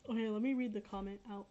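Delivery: talking while eating boba; words round a mouthful of boba; mouth full. Real, not acted. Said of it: "sorry, I'm eating a boba".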